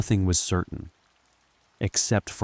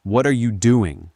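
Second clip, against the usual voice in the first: frightened; 4 semitones higher, 6 dB louder than usual. A narrator's reading. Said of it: "barely able to breathe".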